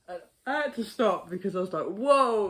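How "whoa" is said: high, loud sudden whoa; startled whoa. Retold or imitated. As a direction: catch yourself before trouble. Realizing he went too far.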